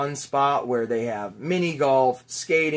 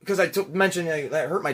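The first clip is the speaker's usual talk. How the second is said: imitated attendant; 4 semitones higher than usual. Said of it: "So he goes".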